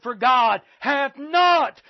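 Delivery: "not" slow and weighty, drawn out; stress on not. Shown as a demonstration. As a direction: lean hard on "not". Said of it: "that word "not" is emphatic".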